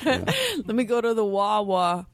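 slow mock Philly accent. Co-host teasing about Philly speech, slow mock Philly accent. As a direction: drag out the words in a Philly accent.

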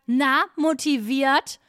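slow, drawn-out cheesy greeting; mock receptionist, drawling slowly; gym receptionist imitation. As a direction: stretch it into a mock pep question. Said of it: "er hat immer gesagt".

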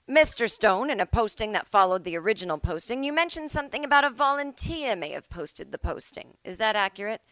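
hammed-up judge cross-examining; mock judge. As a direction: grill him like a judge on the bench. Judge voiced questioning defendant.

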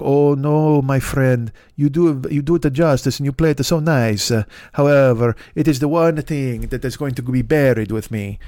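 put-on a light Italian accent on an old shopkeeper. Italian-accented shopkeeper refusing the American soldier, lightly voiced. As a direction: lightly play an Italian violin owner. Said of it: "me competing with Chris Pratt for the voice of Super Mario".

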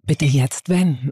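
tief, sehr langsam und gedehnt; Navi-Stimme. Pretend. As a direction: lies die Anweisung gemächlich wie ein Navi vor. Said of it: "Okay, mach nochmal". (tiefe, gedehnte Navi-Ansage)

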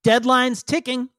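slow, drawn-out villain taunt; smug taunt. Acted. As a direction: stretch it out to goad them. Captured villain taunts the dithering party.

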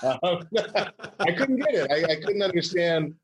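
laughing through the words. Real, not acted. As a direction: break into laughter mid-line. Laughing at his own impression.

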